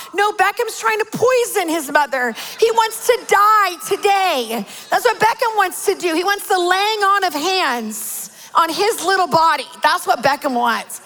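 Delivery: high-pitched comic indignation; hammed-up accusation, pitched high; mock outrage. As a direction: protest in exaggerated outrage at the culprit. Mock outrage at her son's prank.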